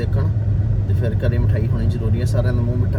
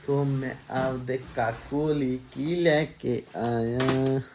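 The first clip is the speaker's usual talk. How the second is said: teasing question; 5 dB quieter, much slower than usual. Real, not acted. Teasing wife with surprise gift.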